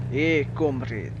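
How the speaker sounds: lightly put-on Russian accent; mock Russian accent. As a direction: play a comrade with a hint of Russian. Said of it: "The Russian accent".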